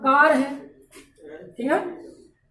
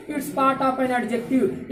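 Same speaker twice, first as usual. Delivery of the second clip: laughing; 3 semitones lower, much slower than usual. Real, not acted. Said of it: "definition said with a laugh".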